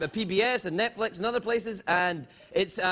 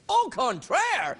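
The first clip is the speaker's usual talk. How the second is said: mock French; 4 semitones higher, much slower than usual. Mock French flourish to a viewer.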